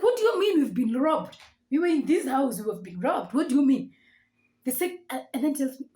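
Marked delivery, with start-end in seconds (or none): 0.0-3.9 incredulous. Retold or imitated. Disbelief at being robbed.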